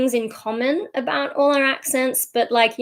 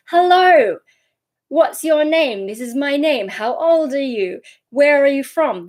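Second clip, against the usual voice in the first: language-beginner phrases; 5 semitones higher, 4 dB louder than usual. Acted. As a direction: recite it like a first language lesson, pitched up. Acts out beginner language-learner phrases.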